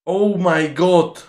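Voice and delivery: very slow drawn-out disbelief; stunned. Real, not acted. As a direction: stretch every word in shock. Stunned by the replay. (muy lento, incrédulo)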